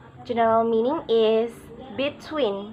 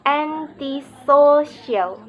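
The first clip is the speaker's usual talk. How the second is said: "antisocial" very slow, main stress on "so"; slow teacher's demo of "antisocial", punching "so"; third-syllable stress; 2 semitones higher, 4 dB louder, much slower than usual. Shown as a demonstration. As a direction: spell out the beats of "antisocial": lighter stress first, strongest on the third syllable. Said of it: "and primary stress on the third".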